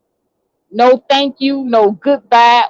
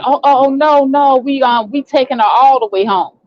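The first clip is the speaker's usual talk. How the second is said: sister's quick objection, pitched up at first; retold insistent protest; 3 semitones higher than usual. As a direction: imitate a sister firmly overruling. Retold sister overruling the drop-off.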